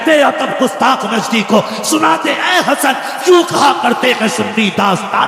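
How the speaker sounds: poem recitation. Acted. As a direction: declaim the verses with passion. Recites devotional verse to crowd.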